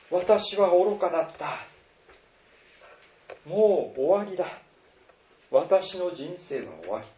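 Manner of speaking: 後悔と絶望の独白、次第に消え入るように; despairing lament. Retold or imitated. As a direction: voice a hopeless sinner's inner cry, fading out. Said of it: "誰もが思うでしょう".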